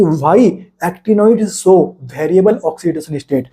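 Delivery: very slow, each word spaced out for notes; slow dictation. Shown as a demonstration. Teacher dictating a key point to students, very slow. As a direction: spell it out slowly so students can write it down.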